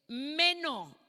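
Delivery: "meno" with the E stressed and drawn out. Shown as a demonstration. Preacher teaching the congregation a word, stress on the E. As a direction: lean on the first vowel of "meno". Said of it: "con acento en la E".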